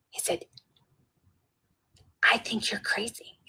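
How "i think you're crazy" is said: breath-only hushed retort; imitated whisper. Security guard whispers back to the helper, whispered. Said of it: "Would you be willing to whisper?".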